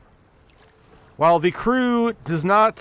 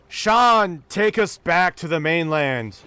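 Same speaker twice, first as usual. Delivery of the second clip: mild captain's yell, slightly raised; slower than usual. Acted. Captain ordering the crew home, mildly yelled. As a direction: call out an order with a touch of command. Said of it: "the loud yelling voice of the captain".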